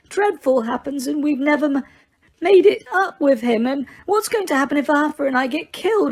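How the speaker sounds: high, stammering, tearful voice; barely holding it together. A narrator's reading. Mrs Weasley weeps into Lupin's shoulder, high and stammering. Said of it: "tears spilling out of her eyes again".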